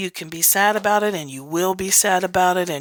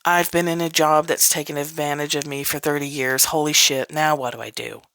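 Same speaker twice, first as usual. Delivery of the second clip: dawning realization; 3 semitones lower than usual. Retold or imitated. Person realizing their life is a mess, low dawning realization. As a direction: mutter it to yourself as it dawns. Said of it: "and going".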